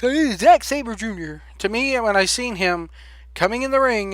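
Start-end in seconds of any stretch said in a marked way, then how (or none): 0.0-1.4 mock British fans. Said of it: "The British marks".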